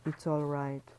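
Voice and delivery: a hint of a gentle fatherly voice; lightly voiced tender lover; sweet and paternal. A narrator's reading. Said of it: "His voice sounded sweet and paternal".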